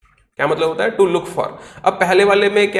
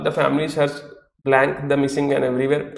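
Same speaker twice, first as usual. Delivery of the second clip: reading the sentence slowly, word by word; 4 semitones lower, much slower than usual. Shown as a demonstration. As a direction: spell out the blank sentence for the class. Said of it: "बोला".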